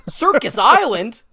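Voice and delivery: laughing through the words; cracking up mid-title. Real, not acted. Laughing while reading title.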